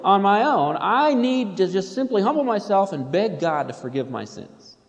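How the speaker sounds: humble plea. Retold or imitated. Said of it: "humble themselves and say".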